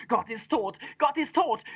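proclaiming rider's call; mild cry. A narrator's reading. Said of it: "schreit da einer und da schreit er".

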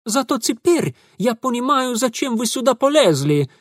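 high, loud gloating shout; triumphant cry. Acted. Ingvar loudly gloating at Mitya. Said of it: "вскричал Ingvar".

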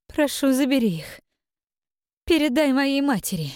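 high, eerie ghostly spirit voice; otherworldly voice. Acted. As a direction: speak like a drowned spirit from beyond. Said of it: "тихим потусторонним голосом проговорила Навка".

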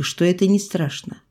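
usual speaking voice

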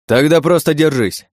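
loud, high urgent bark; barked order. A narrator's reading. Driver orders princess to hold on as shots threaten, barking. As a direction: bark it out as an emergency command. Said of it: "рявкнул я".

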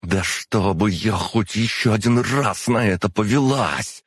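high, drawn-out seething vow; indignant hiss. A narrator's reading. Tricked demon swears never again, hissing indignantly. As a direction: seethe it slowly, stung at being fooled. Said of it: "прошипела Аза".

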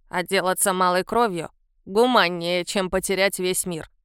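put-on low, grumbling old man's voice; old man grumbling his warning. A narrator's reading. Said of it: "пробурчал старик".

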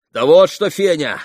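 громко, выше; крикнуть ей уже из саней; окрик. A narrator's reading. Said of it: "крикнул он ей". (Митя кричит Фене с сиденья)

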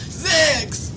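high, loud disbelieving cry; stunned at six dogs, high and loud; shocked question. Acted. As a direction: gasp out the number in shock.

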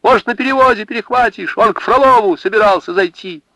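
high, loud hurried urging; shouting directions after a rider; urgent shout. Acted. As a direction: push her to ride now. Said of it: "закричала Марина".

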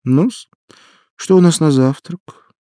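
forced cheerful, loud and high; overly energetic. Acted. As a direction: put on too much pep. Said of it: "произнесла чрезмерно энергичным голосом".

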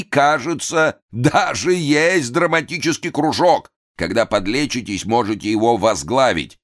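mock the failed pupil grandly; театральная насмешка; grand mockery. A narrator's reading. Director mocking pupil.

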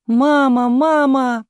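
put-on high, loud cry of a little boy; excited child's call. A narrator's reading. Son runs up to his mother, excited call.

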